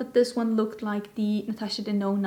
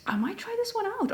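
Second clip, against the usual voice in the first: soft unvoiced whisper, higher; 10 semitones higher, 5 dB quieter than usual. Real, not acted. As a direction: whisper it like a secret. Whispered aside.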